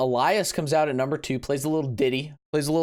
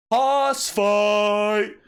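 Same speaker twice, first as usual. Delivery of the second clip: a higher, louder fan yell of hoss fight; retold yell; 6 semitones higher, 4 dB louder than usual. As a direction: shout it like you did at the screen. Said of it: "I yelled out loud".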